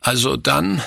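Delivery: put-on resigned child giving in; seufzend. A narrator's reading. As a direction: give in with a slight sigh. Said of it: "sagte Günther seufzend". (seufzend nachgebendes Kind)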